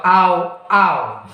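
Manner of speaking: "Ow" like a dog's bark, falling; playful teaching "ow". Shown as a demonstration. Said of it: "Just like a dog".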